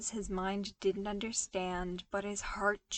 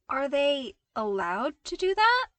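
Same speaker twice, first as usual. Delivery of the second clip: dubiously; 6 semitones higher, 8 dB louder than usual. Acted. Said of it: "Luke asked dubiously".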